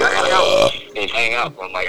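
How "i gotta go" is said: low and loud, abrupt; a low, gruff quick exit line; deep gruff imitation. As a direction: drop way down and cut it off. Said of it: "all of a sudden he's like".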